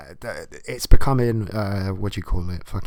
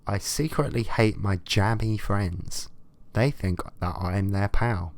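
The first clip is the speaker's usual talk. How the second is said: 1 letter reading; slower than usual. Acted.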